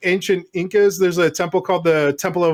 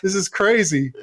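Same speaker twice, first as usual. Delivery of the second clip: incredulous outrage; 3 semitones higher than usual. Retold or imitated. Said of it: "And I'm like".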